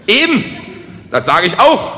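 high, eager agreement; delighted. A narrator's reading. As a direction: jump in, pleased they are following. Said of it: "erfreut über die Anteilnahme".

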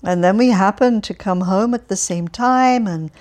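put-on loud, chatty, cheerful old man voice; cheerful Alferov. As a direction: prattle on brightly to a stranger. Alferov muses on the meeting.

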